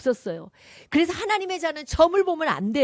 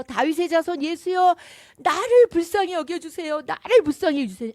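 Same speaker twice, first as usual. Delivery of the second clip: beggar crying out for mercy, louder and higher; imitated shout; 4 semitones higher, 5 dB louder than usual. Blind beggar shouting to Jesus by the road, louder pleading cry. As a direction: plead loudly as the blind man calling to Jesus. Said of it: "소리, 소리 지르면서".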